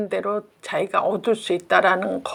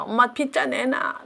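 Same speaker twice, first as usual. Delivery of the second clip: mock tearful whining; 3 semitones higher, 5 dB quieter than usual. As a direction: imitate a whiny child demanding. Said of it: "막 징징거리고 울면서". (징징거리며 우는 아이 흉내)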